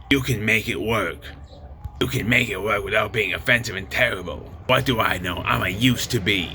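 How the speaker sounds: lightly voiced impersonation of a talk-show host; Whoopi Goldberg. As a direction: read it out in a slightly put-on voice. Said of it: "This is Whoopi Goldberg again".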